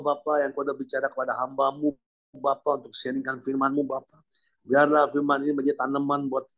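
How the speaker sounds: steady, level-toned closing prayer. Real, not acted. Pastor praying to Bapa for the congregation, prayerful. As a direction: pray aloud in an even, continuous cadence.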